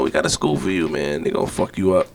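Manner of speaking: mom's warning. Retold or imitated. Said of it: "My mom told me".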